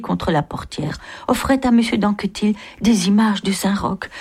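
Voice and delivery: lively, measured novel reading; story narration. A narrator's reading. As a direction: read it out like a literary storyteller. Reads the novel aloud.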